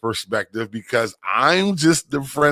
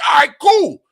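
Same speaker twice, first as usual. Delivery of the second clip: mock casual reply; 6 dB louder than usual. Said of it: "I'm like".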